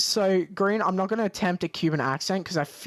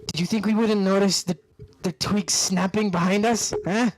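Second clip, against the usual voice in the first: louder, faster demand from a bandit boss; menacing bandit leader; 3 semitones higher, 4 dB louder than usual. Acted. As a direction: push him, you caught him sneaking. Bandit leader confronts sneaking player.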